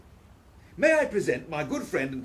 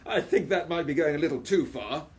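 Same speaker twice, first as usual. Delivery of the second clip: laughing. Acted. Laughing at friend's joke.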